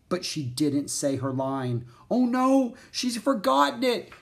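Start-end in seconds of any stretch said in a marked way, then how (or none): 2.1-4.1 high, loud, frantic thought; wild panic. A narrator's reading. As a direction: panic at a sudden disaster. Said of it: "Jack thought wildly".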